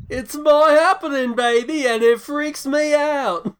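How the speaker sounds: shouted high-pitched quote; high, loud and drawn out; high excited quote. Retold or imitated. Quoting club scene line.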